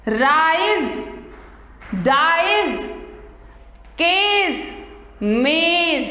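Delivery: "राइज, डाइज, केस, मेज" drawn out, each ending in z; Z sound endings. Shown as a demonstration. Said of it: "किसका आ रहा है". ("राइज, डाइज, केस, मेज" के अंत में ज़ की ध्वनि)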